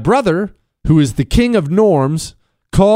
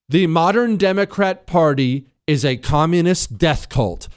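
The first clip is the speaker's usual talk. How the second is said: ordinary talk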